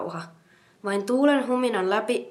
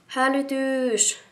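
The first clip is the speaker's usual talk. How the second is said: high, slow drawn-out cry of alarm; alarmed shout; 6 semitones higher, much slower than usual. A narrator's reading. Karoliina raising the alarm running through the village, high and drawn-out. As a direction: call out the alarm, stretching it long. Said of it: "Karoliina huusi".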